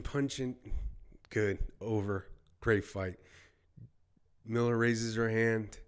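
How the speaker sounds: quick, rising play-by-play as the round ends; keyed-up ringside call; live fight commentary. Real, not acted. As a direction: call the last seconds of the fight. Calls the final seconds live.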